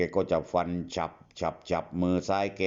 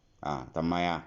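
Nachip asking; 4 semitones lower, 4 dB quieter, slower than usual. Acted. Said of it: "นาชีพแกถาม".

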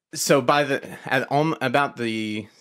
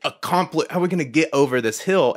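thrilled viewer; 5 semitones higher than usual. Retold or imitated. Moviegoer enjoying the cliffhanger, excited and higher. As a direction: gush over the suspense. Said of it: "I felt like".

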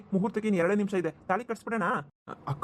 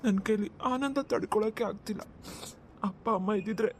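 halting, choked-up brother; tearful joy. Acted. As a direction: hold back happy tears, pausing between phrases. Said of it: "ಕಣ್ಣೀರ್ ಹಾಕ್ತಿದ್ದೀರಲ್ಲ".

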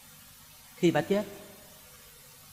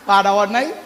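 ordinary talk, nothing marked

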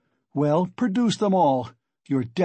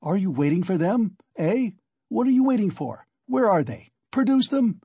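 agitated, high-pitched angry tirade; heated, insistent demands, climbing in pitch; in a passion; 6 semitones higher, 3 dB louder than usual. Acted. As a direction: hurl accusations in a rising frenzy. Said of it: "You are in a passion. Don't shout".

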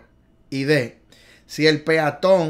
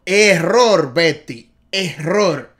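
loud correction; 7 dB louder, much slower than usual. Acted. Correcting viewer Betty.

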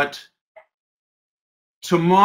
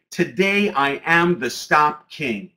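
slow affirmation; slower than usual. Shown as a demonstration. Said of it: "you'll say".

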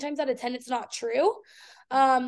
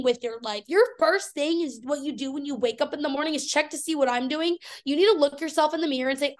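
heated, fast comeback to the trolls; defiant rant. Retold or imitated. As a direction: let the haters have it. Telling off the online haters.

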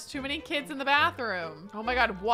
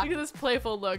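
usual speaking voice

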